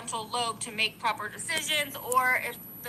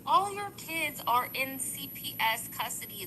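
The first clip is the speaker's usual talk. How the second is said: controlled but insistent, taking more time; toned-down repeat; 3 dB quieter than usual. Real, not acted. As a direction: rein in the yelling and spell it out. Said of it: "Sorry, I'm yelling".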